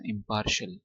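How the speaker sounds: "इम्पार्शियल" ending in a short "shul"; correct pronunciation. Shown as a demonstration. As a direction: model "इम्पार्शियल" as im-PAR-shul, r sounded. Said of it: "आपने पढ़ना". (सही "इम्पार्शियल", आख़िर में छोटा "शल")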